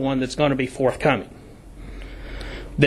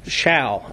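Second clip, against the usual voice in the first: "shall" held long and falling, set apart by a pause; stress on shall. Real, not acted. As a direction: lean hard on "shall" so it sounds mandatory. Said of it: "and I emphasize the word shall".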